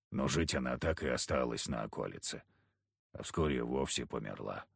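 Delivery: low, gruff backwoods hunter. Acted. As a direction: speak it low and heavy like a surly hunter. Kharisim voiced low, gruff.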